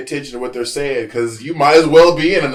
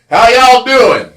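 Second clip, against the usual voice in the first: high, loud and slow Oklahoma greeting; Oklahoma drawl; 11 semitones higher, 12 dB louder, slower than usual. Retold or imitated. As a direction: greet him with a big slow Oklahoma "y'all". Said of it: "I said, y'all".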